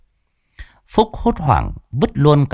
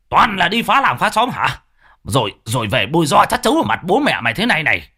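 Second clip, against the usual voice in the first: angry father scolding, higher and fast; 5 semitones higher, faster than usual. Acted. Father scolds his son during the beating, angry and fast. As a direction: tear into the boy while beating him.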